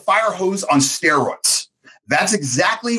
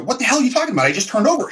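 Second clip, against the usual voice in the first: shocked; 6 semitones higher, much faster than usual. Retold or imitated. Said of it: "I literally out loud".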